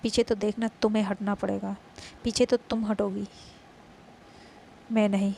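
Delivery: loud, firm claim on her love; possessive retort. Acted. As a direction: stand your ground, loud. Faiz answers the rival.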